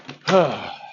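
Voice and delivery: heavy exhale; sigh. Pretend. Just hung up on a difficult friend, sighing. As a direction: let out a breath after the call.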